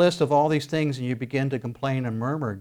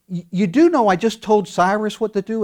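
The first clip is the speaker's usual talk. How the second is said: God's voice; 7 semitones higher, 5 dB louder than usual. Acted. God voiced to the listener.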